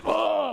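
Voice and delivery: high, drawn-out mock gushing "oh"; effusive hugging "oh". Dad coming home hugging his kids, exaggerated high "oh". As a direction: imitate an overdone bear-hug exclamation. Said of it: "he starts hugging his kids".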